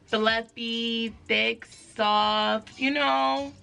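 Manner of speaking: loud, emphatic exasperation; exasperated, mad. Real, not acted. Vlogger showing viewers her ruined twists, mad and exasperated. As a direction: vent it, punching the key words. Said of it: "I am so freaking mad".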